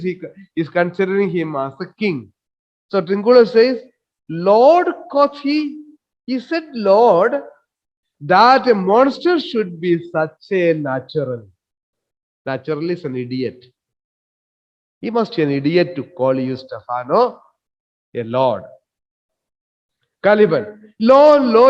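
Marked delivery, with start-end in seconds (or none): 4.3-11.5 mocking. Teacher reads Trinculo mocking. 21.0-21.7 mock outcry. Teacher voices Caliban complaining.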